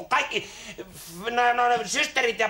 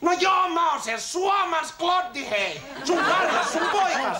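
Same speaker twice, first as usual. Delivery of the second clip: slow, raised, emphatic reveal; emphatic announcement; 3 semitones higher, slower than usual. Acted. Son tells father whose boy he is, emphatic announcement.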